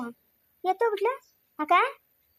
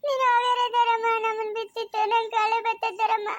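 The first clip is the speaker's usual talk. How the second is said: put-on child's voice, crying as she begs; tearful pleading. Girl begging her aunt not to leave, crying. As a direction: plead through tears, slowing down. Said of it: "ಅಯ್ಯೋ, ಅಳ್ಕುಡ್ದಮ್ಮ".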